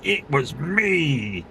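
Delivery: lightly voiced proud confession, very slow; a hint of Jim Carrey owning up, drawn out slowly; slow, smug "It was me" in a light Jim Carrey style. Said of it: "He, he'd be like".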